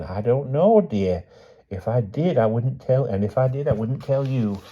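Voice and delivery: put-on high old lady's voice; high, evasive elderly character; stubborn old aunt. A narrator's reading. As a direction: refuse firmly as a dear old aunt.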